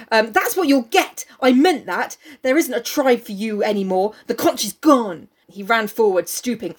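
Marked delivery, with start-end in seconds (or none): 0.3-5.3 Jack. Acted. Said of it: "this is what Jack says".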